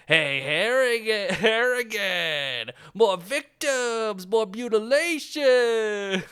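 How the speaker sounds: slow, high, drawn-out urgent calling; hammed-up reporter shouting news; mock excited reporter. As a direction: stretch each word like a sleazy newsman. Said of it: "Tony Pope runs up and he goes".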